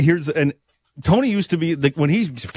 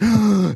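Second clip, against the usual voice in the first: mock gasp; 4 semitones higher than usual.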